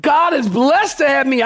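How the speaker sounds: a hint of a smug boaster; lightly mock the self-satisfied bragger; boastful braggart. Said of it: "You would tell people".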